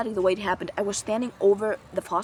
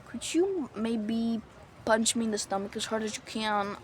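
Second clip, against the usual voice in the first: timid quiet request; 5 dB quieter than usual. Retold or imitated. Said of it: "I was scared".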